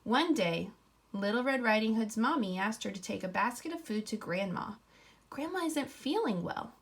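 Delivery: put-on reading a picture book to children; story narration. A narrator's reading. Teacher reading aloud to her class, story voice.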